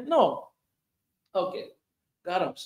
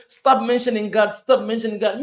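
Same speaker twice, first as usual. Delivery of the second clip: mocking critics; 4 semitones higher, 8 dB louder than usual. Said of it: "you say".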